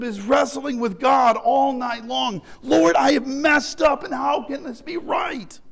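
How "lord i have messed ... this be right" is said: anguished pleading cry; angry prayer. Pretend. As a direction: plead desperately, then fade. Jacob's wrestling prayer voiced.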